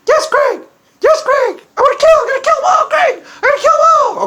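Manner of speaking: high, loud, fast squeaky shouting; a gleeful little girl yelling threats; Stephanie voice. Retold or imitated. Host voices Stephanie answering him, high fast squeaky shouting. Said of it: "my Stephanie imitation".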